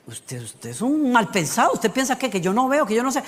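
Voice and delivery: a mock accusing, suspicious God; a mild scold that snaps at a man for bad beets; mild hammed-up rebuke. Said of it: "Dios pudo venir y decir".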